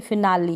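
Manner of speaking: फिनाली ending in a long ee; फिनाली as fi-naa-lee; final E pronounced. Shown as a demonstration. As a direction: sound out the last vowel in फिनाली. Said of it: "इस तरीके से ई यहाँ पर".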